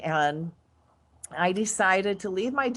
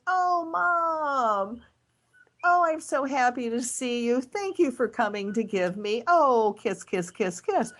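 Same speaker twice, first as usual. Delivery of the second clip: put-on higher, sweet little-girl voice, gushing; sugary little girl; 3 semitones higher than usual. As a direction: play the fake-sweet child putting on a show. Daughter voiced sweetly to the cop.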